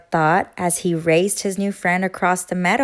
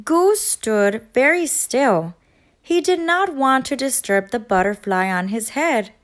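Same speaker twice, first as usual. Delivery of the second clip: put-on storybook voice for kids; story narration; 3 semitones higher than usual. A narrator's reading. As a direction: settle in and tell the story to children. Narrator starts reading story.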